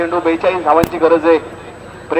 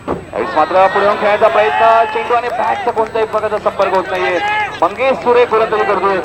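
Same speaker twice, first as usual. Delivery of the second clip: higher-pitched, rising play-by-play; excited commentary; 4 semitones higher than usual. Real, not acted. Commentator calling a missed charge, raised excited voice. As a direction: lift the voice as the batter charges and misses. Batter steps out and misses the ball.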